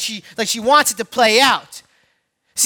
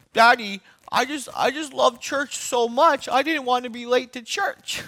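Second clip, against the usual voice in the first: a light hint of a sweet little girl, softer; 6 dB quieter than usual. Five-year-old daughter sweetly excusing herself to dad, lightly voiced. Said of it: "her sweet little voice says".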